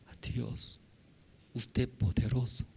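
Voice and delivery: hushed, soft address to God; reverent prayer. Acted. Preacher modelling prayer to an almighty God, hushed and reverent. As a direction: speak softly in humble trust.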